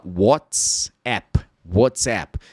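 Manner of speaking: WhatsApp said wotsep with an o vowel; English-style WhatsApp. Shown as a demonstration. Teacher showing English pronunciation of WhatsApp. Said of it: "Se você ouvir alguém falando WhatsApp".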